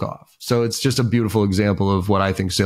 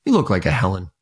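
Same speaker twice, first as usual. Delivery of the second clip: mock excited ramble; 5 semitones higher than usual. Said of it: "He goes".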